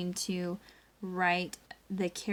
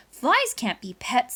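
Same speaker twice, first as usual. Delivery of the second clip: dad's firm voice; 3 semitones higher, 6 dB louder than usual. Acted. Dad character voiced in story.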